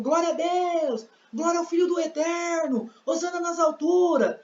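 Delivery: high, drawn-out cries of praise; acted cheering crowd, high-pitched without real volume; crowd praising. Crowd praising Jesus as he passes, high acted cries. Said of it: "eu tô ouvindo o povo".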